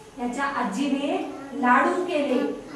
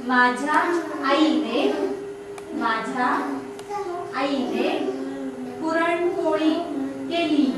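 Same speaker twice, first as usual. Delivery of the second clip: slow dictation. Shown as a demonstration. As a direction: spell out each word for the class to write. Teacher dictates sentences word by word.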